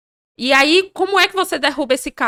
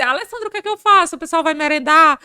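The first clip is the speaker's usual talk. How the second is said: complaining team leader; 3 semitones higher than usual. Retold or imitated. Leader asking Alessandra about long snack breaks, mock-fretful. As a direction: imitate a leader bringing a grievance.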